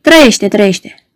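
slow, grudging repeat; slow reluctant answer. Acted. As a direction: drag it out unwillingly. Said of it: "îi răspunse în silă Azalelo".

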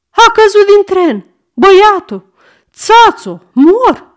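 high, loud frantic cries; hysterical panic. A narrator's reading. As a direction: shriek as if about to faint. Ladies panic, boy fallen from train. (țipete isterice)

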